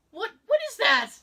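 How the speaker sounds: loud, high, incredulous demand; imitated alarm. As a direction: act appalled at an awful noise. Retold appalled reaction to cough.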